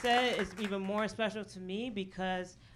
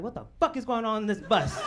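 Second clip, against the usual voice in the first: lightly acted, louder man taking charge; masculine indignation; 2 semitones higher, 5 dB louder than usual. Rider standing up on a broken-down bus, mock masculine indignation. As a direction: demand answers with a touch of macho bluster. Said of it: "started feeling real masculine".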